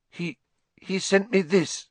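put-on high girlish voice, tearful stammer; a girl near tears, stumbling over words; upset Hermione.

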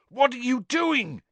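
yelling. A narrator's reading. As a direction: shout it out in alarm. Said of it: "yelled Cedric's voice".

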